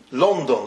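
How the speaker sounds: "London" as LON-don; rounded O in "London"; Yiddish pronunciation. Shown as a demonstration. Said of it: "how they say it in Yiddish".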